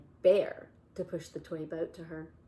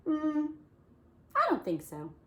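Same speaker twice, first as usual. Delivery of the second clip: reluctant Bear; 10 semitones higher, 6 dB louder than usual. Acted. Bear refusing.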